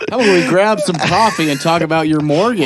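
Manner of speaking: put-on chummy white American neighbor accent; generic white American accent. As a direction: ham up a white-guy small-talk accent. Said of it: "that is the generic ass white accent".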